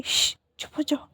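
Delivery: soft whispered shush; hushing whisper. A narrator's reading. Aunt soothing crying Wing, whispered shush.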